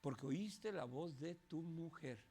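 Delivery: low, slow, grave voice of God; solemn quote. Acted. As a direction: speak it low and slow like a divine rebuke. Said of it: "Dios le dijo". (voz grave y lenta de Dios)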